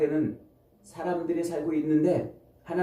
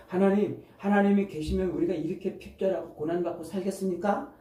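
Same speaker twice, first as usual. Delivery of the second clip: higher-pitched, questioning plea to God; acted protest; 6 semitones higher than usual. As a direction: act out Gideon challenging God. 기드온이 하나님께 따져 묻는 장면. (높은 음으로 따져 묻는 연기)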